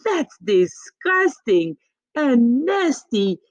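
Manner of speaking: high, outraged mother voice with a cry in it; a horrified mom scolding her son; shocked mother. Acted. Mother appalled at her son's mess, high and shrill-free outrage.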